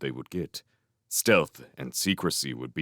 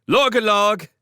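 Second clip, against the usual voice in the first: high, loud call across the river; shouted call; 7 dB louder than usual. Acted. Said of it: "stood on the bank and shouted".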